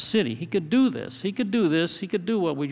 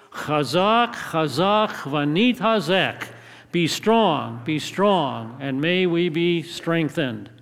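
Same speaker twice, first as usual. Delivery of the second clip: raised, deliberate congregational chant; calling out together; 2 semitones higher, 3 dB louder, much slower than usual. Real, not acted. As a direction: lead the room in a strong rallying call. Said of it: "calling out, crying out together".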